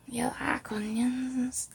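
slow York accent, stretched vowels; northern English accent. Shown as a demonstration. Demonstrating how people from York talk, slow northern accent. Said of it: "like, a northern accent".

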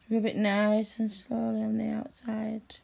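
breathy intimate whisper; hushed whispered instruction. Acted. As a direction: whisper it close in his ear.

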